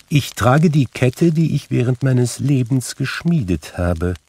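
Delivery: high, declaimed spectral lament; mournful ghost. A narrator's reading. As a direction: confess it as a tormented spirit. Narrator voices Marley's ghost.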